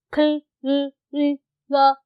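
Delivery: क्ल- then ल- split off and repeated, no r sound; sounding out clear. Shown as a demonstration. Teacher sounds out ल- ल- so students hear there is no r. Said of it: "र नहीं होता".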